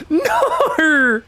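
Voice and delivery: high, laughing cry of disbelief. Real, not acted. Caster laughing as the player loses his wall, high cry. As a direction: laugh out a no as the play collapses.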